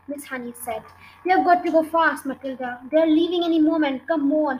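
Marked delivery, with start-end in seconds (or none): 1.2-4.6 loud, raised, hurrying voice; urgent shout. A narrator's reading. Matilda hurrying Miss Honey before they leave, shouting. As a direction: shout to get her moving at once. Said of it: "she shouted".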